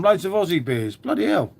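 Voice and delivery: playful put-on Australian accent; mock Aussie accent. Streamer mocking his own slip, mock Aussie accent. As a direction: echo it in a jokey Aussie accent. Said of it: "Where was that from?".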